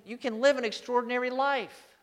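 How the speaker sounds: lifted, emphatic promise; declared with an exclamation point. Shown as a demonstration. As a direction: raise it high and proclaim it. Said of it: "with an exclamation point".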